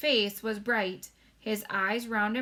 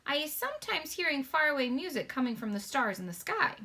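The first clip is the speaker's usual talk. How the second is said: lightly voiced gentle giant, higher; BFG voice; 6 semitones higher than usual. Giant telling Sophie about faraway music, gently voiced.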